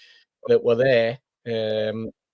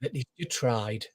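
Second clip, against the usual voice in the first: deadpan; 2 semitones lower, 9 dB quieter than usual. Retold or imitated. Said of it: "looked at us straight in the eye and went".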